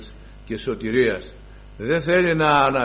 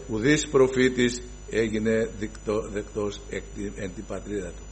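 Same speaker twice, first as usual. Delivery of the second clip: hushed solemn quote; 3 semitones lower, 6 dB quieter than usual. Acted. Quoting Christ's saying.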